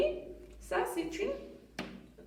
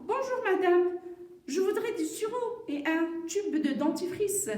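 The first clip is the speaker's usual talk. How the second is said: lightly voiced customer, higher pitch; clear, raised model-reading voice; mother's dialogue line; 5 semitones higher than usual. Mother ordering at the pharmacy, lightly acted and higher. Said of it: "le dialogue de la maman de Salima".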